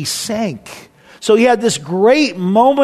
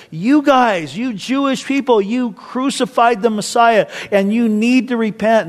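mock street-preacher address, pitched up; preaching; 5 semitones higher than usual. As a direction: imitate a preacher accusing the crowd. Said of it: "he preaches and he says".

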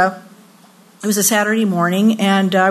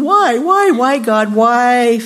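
pleading; 2 semitones higher, 4 dB louder, slower than usual. Acted. Preacher voicing believers questioning God, pleading. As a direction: imitate someone wailing why at God.

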